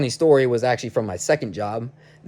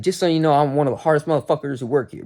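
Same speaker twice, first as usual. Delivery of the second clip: fast, pitched-up indignant comeback; upset retort; 3 semitones higher, faster than usual. Retold or imitated. Worker upset at being yelled at by foreman, indignant retort. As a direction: defend yourself with hurried indignation. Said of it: "I was really, really upset".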